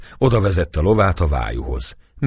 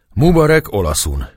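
a hoarse, raven-like call, higher and louder; 6 semitones higher, 5 dB louder than usual. A narrator's reading. Móré hailing the priest in the yard, hoarse raven-like call. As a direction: croak it out like a raven. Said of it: "kiáltotta a papnak rekedt holló hangon".

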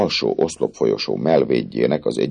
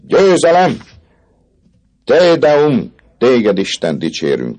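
much higher, loud cry of victory; triumphant shout; 12 semitones higher, 6 dB louder, slower than usual. Acted. The student Jean arrives with the ladder, triumphant loud shout. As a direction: crow with triumph. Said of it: "kiáltotta a diák".

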